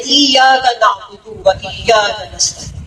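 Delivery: slow recitation, doubled ی pressed in "ایاک"; stressed doubled letter. Shown as a demonstration. Teacher demonstrates tashdeed, ایاک with the ی pressed double. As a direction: lean on the ی of "ایاک", holding it double. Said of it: "زور دے کے پڑھنا ہے".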